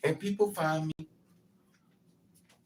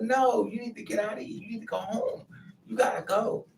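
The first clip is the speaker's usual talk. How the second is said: usual speaking voice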